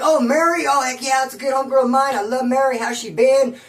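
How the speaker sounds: light up at a familiar name; delighted recognition. Retold or imitated. Inmate hears a stranger mention his old friend, delighted recognition.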